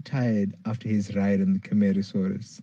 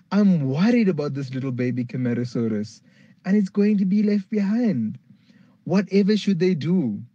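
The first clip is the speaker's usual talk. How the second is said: put-on a touch higher, anxious little girl; worried Tulip; 7 semitones higher, 3 dB louder than usual. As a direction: fret over the baby being left behind, half whispered. Tulip's voice held in story.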